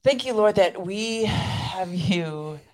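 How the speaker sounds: earnest spoken prayer, drawn-out phrases. Real, not acted. Co-host ending the show in prayer, prayerful. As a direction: address God in thanks, unhurried.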